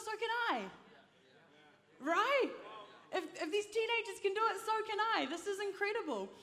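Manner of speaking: gasp, then let the excitement lift the voice; excited awakening. Acted. Acts out an awakened, excited believer.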